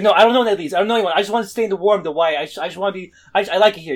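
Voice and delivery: loud, high, clinging plea not to be made to leave; desperate pleading Peter. Retold or imitated. Peter pleading to stay in the void.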